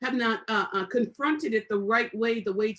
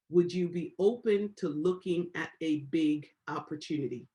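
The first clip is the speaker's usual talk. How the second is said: calm script read; 4 semitones lower than usual. Shown as a demonstration. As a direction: model the pitch patiently for the class. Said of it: "Yes, yes, Doctor, yes, Pastor Lene".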